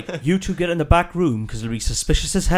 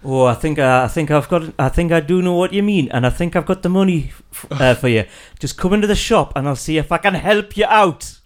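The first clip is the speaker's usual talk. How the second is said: character voice. Acted. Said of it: "your personality totally changes with your voice".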